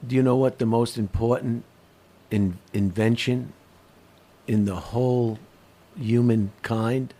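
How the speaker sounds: slow, low, hammy dramatic build-up; bad acting. Shown as a demonstration. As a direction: drag it out like a bad actor. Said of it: "Do I have to deliver it like that too?".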